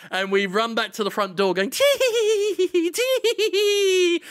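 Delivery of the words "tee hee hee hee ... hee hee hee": very high, squealed mock giggle; gleeful tee-hee. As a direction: giggle like a gleeful imp, pitched way up. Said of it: "gleefully dancing around in the kitchen".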